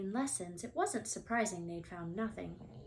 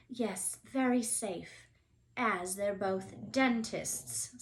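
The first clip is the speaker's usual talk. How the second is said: sarcastic; slower than usual. Acted. Hermione's dry reply.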